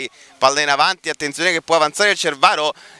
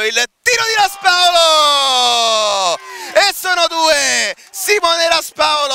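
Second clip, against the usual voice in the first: goal call; 7 semitones higher than usual. Real, not acted. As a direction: erupt as the ball goes in. Goal scored, commentator erupts.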